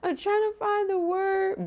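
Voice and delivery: high, slow laughing repeat; laugh-cry it out, stretched; giggly high whine of frustration. Real, not acted.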